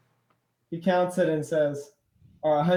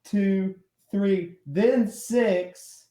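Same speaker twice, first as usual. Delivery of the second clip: higher, emphatic count, dragged at the end; insistent counting; 4 semitones higher, 4 dB louder, much slower than usual. Acted. Cyclops teaching his partner to count, insistent. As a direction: spell it out for an idiot.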